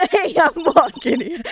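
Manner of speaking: loud "I'm walking here" New York shout; New York accent. Acted. Guard yelling at passersby in New York accent. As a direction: yell it like a New York cabbie. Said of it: "That's what I went with".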